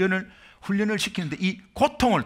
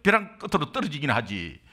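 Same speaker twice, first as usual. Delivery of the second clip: higher, indignant rant at the other driver; angry blaming; 7 semitones higher than usual. Retold or imitated. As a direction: blame him, outraged and higher. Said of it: "마 원망했어요". (사고 상대를 원망하며 높이 따지는 목소리)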